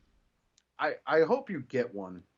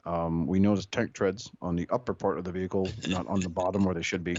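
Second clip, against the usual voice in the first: a touch lower, dry police report; deputy's report; 5 semitones lower than usual. Acted. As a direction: give a deadpan officer-on-scene statement. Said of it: "Marion County Sheriff Deputy Streetwise".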